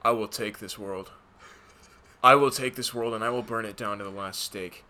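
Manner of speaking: flat, droning hero lines; deadpan bland actor voice; monotone Thor impression. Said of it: "Just do a super monotone voice".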